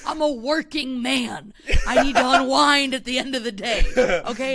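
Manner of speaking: a working dog defends its drinking; mock angry dog rant. Dog rants at the owner, mock indignant. Playing the drunk dog, ranting.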